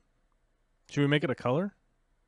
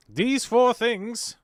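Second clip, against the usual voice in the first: slow emphatic; 10 semitones higher, 6 dB louder, much slower than usual. Real, not acted. Lecturing the viewer.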